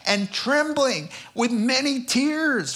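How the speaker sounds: a hint of a fearful, trembling Paul; timid Paul. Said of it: "Yeah, he said".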